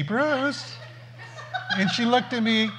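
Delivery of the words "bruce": put-on old lady. Phyllis calls him, fresh as daisy.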